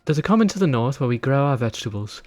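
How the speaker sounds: lightly voiced innkeeper, chatty and bossy; a hint of a village innkeeper. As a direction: hand out the chore like a busy landlady. Voices innkeeper giving a quest.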